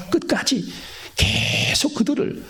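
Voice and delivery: high whispered 끝까지. Acted. Whispered emphasis.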